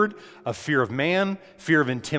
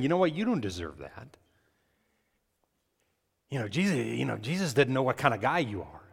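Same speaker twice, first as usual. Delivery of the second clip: quieter, taunting whisper-like voice of the enemy; 5 dB quieter, faster than usual. Acted. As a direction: murmur it like a tempter putting you down. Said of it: "that's the voice that comes".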